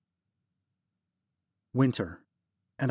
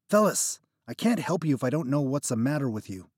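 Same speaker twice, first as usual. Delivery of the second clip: frustrated; 4 semitones higher, 3 dB louder than usual. Acted. Narrator frustrated.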